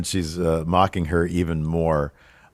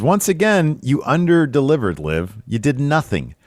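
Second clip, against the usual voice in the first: taunting; 6 semitones higher than usual. Retold or imitated. Becky taunting Liv on the mic.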